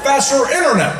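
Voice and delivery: halting, buffering presidential voice; stop-start delivery like a stuck stream; Barack Obama. Acted. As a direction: stall on drawn-out uhs between phrases. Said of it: "his voice sounded like it was buffering".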